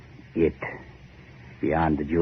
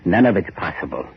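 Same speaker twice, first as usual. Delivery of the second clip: louder, higher, heated; rising in bitter disbelief; bitter outburst; 3 semitones higher, 4 dB louder than usual. Acted. Bitter outburst about the island.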